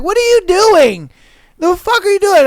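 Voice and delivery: mock angry dad. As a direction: scold like a shocked dad, half joking. Dad catching kid with salt.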